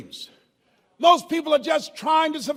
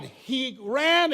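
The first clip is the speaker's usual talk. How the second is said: ordinary talk, nothing marked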